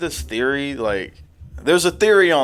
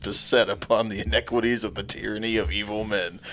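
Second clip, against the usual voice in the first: movie monologue; 4 semitones lower, 8 dB quieter than usual. Pretend. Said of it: "That was pretty good".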